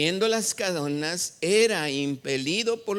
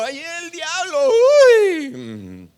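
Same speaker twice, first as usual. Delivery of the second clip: high mock-scared squeal; mock fright; 10 semitones higher, 10 dB louder, slower than usual. Preacher mocks timid believers, mock scared squeal. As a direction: play the jumpy believer, half-hearted.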